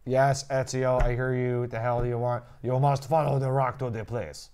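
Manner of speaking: put-on hammy, muddled Italian-Russian accent; bad Italian accent. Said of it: "you went right into Russian".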